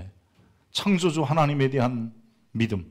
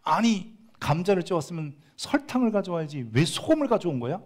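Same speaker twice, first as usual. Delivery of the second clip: mock angry husband; 7 semitones higher than usual. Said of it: "화를 확 낸 거예요".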